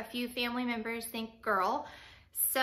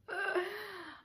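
nervous sigh; 8 semitones higher, 5 dB quieter than usual. Real, not acted. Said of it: "I'm so nervous to tell you guys".

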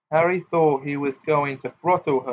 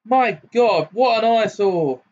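put-on much higher, loud, haughty girl; girl's voice ringing out; 8 semitones higher, 6 dB louder than usual. A narrator's reading. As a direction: ring it out scornfully from outside. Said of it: "rang out a girl's voice".

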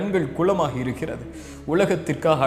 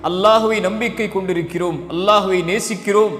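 preach; 3 semitones higher than usual. Acted. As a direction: climb with each line of the creed like a preacher. Preacher's rising litany of belief. (உணர்ச்சி பொங்கும் பிரசங்கம், படிப்படியாக உரக்க)

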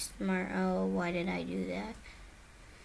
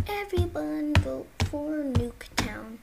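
loud rallying call to the lobby; 5 semitones higher, 5 dB louder than usual. Real, not acted. Player urging the whole lobby to pick Nuketown, loud call. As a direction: raise the voice to win the vote.

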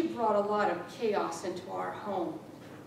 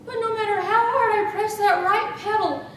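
higher, louder, laughing through the story; gleeful laughing telling; 9 semitones higher, 10 dB louder than usual. Acted. Widow gleefully recounting running over her cyclist husband, laughing. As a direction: barely hold back glee as it builds.

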